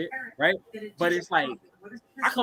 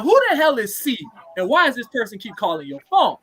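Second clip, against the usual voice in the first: acted-out annoyed demand, raised pitch at the start; pissed off; 3 semitones higher, 4 dB louder than usual. Boyfriend confronting girlfriend about a mystery caller, pissed off. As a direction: retell an indignant challenge, louder on the opening. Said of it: "So I'm pissed off".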